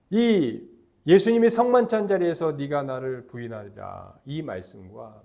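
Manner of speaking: ordinary talk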